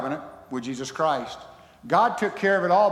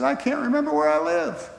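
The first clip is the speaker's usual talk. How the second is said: very high, comic tearful wail; hammed-up sobbing old man; mock crying; 11 semitones higher than usual. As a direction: wail it as a joke punchline. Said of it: "why are you crying".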